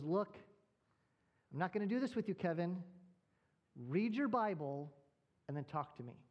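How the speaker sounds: a hint of a stern mom laying down the law; stern mother. Mom on the phone refusing her son, lightly stern. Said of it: "in a stern voice".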